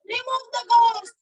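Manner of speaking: panicked cry for help. Acted. Wife shouts for help.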